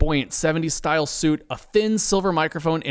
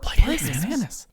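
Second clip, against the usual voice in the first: excited murmur; 7 semitones higher, slower than usual. A narrator's reading. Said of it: "with excitement".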